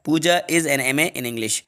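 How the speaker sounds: very slow, each word apart; slow dictation. Shown as a demonstration. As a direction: read slowly for copying. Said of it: "यहाँ पर N आएगा". (बहुत धीमे)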